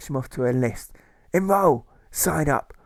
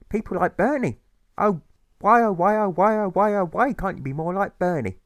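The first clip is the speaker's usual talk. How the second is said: much higher, loud exasperated wail; nagging mother; 9 semitones higher, 4 dB louder than usual. Acted. Mother berating Alfred about Bernie, high wailing. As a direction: wail at him like a despairing mum.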